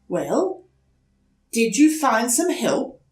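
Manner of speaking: mother relieved to find her lost son. Acted. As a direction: sigh with relief. Mother asks.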